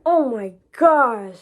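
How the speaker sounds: slow, drawn-out amazement; awed oh my gosh. Retold or imitated. Recalling the acceptance, slow awed disbelief. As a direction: let it sink in, slowly. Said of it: "I'm just so excited".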